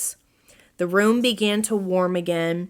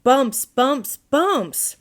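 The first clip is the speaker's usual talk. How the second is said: higher, louder, exasperated repeats; frantic exclaiming; 5 semitones higher, 3 dB louder, much slower than usual. A narrator's reading. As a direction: cry out in exasperation. Owl frantic about the bumps.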